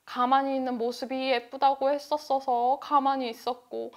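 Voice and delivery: ordinary delivery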